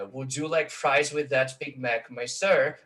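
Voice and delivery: slow alternating beats on "Would you like fries with that Big Mac, my sir"; heroic verse rhythm. Shown as a demonstration. Lecturer showing fast-food English as verse, stressing every second syllable of "Would you like fries". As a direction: scan "Would you like fries" weak-strong, measured. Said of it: "Também é um decassílabo heróico em inglês".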